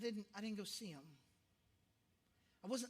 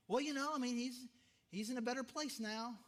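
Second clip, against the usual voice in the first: mock pious cliché; 2 semitones higher than usual. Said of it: "the worst instincts as far as the things".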